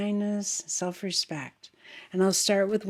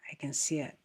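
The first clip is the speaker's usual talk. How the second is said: breathy whisper, almost to herself; a soft whispered confirmation; whispered aside; 2 semitones lower, 6 dB quieter than usual. Real, not acted.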